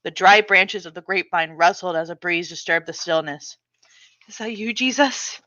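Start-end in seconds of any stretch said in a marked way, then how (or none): 4.3-5.4 hushed hopeful question. Acted. Hears breeze, whispering hope.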